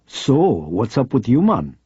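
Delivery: lightly put-on Jamaican lilt, slow; a playful hint of Jamaican patter; Jamaican accent. Reporter teasing an old cop friend in a slight Jamaican lilt. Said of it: "she would turn on the accent and the patter".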